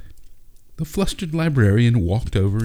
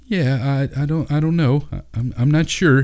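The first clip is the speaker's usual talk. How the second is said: stammered; 8 semitones higher than usual. A narrator's reading. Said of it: "he stammered".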